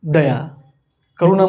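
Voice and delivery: usual speaking voice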